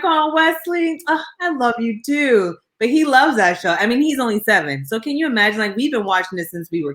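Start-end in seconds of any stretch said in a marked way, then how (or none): 0.0-2.6 high, slow, tender; tender reply. Retold or imitated. Answering the little cousin, high and tender.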